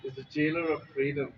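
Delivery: put-on lightly done Boston accent; a hint of a Boston accent quote; JFK Boston accent. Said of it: "in a Boston accent".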